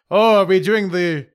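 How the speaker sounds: lightly voiced moaning zombie; attempted zombie voice. Game master trying out an Inferi, half-hearted zombie voice. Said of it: "What's a zombie voice".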